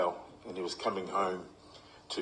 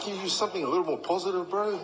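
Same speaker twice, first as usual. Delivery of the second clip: higher, fast laughing plea; 11 semitones higher, 4 dB louder, faster than usual. Retold or imitated. Player asking coach to be kinder, fast laughing plea. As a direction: ask nicely while laughing. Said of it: "And I thought".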